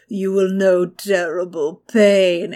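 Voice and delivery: slow, menacing witch curse; sinister witch. Retold or imitated. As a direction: cast the curse slowly.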